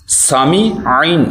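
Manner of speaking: سامع ending in a squeezed throat sound; clear ayn. Shown as a demonstration. Teacher isolating the throat letter, سامع with audible ayn. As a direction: bring out the ayn after سامع. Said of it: "عین کی آواز نکالنی ہے".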